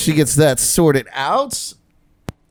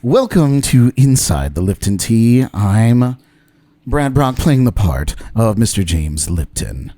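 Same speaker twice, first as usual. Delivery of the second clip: hint of a measured, soothing interview-show host; lightly voiced formal TV interviewer, unhurried pauses; James Lipton impersonation; 2 semitones lower than usual. Host introduces his country singer guest, lightly impersonated soothing interviewer. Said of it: "It's my best James Lipton impersonation".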